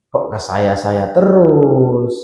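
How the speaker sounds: slow, stretched-out mock grumble; drawn-out complaint. Helper asked for the tenth time, complaining slowly. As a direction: drag out the last word in protest. Acted complaint at repeated requests.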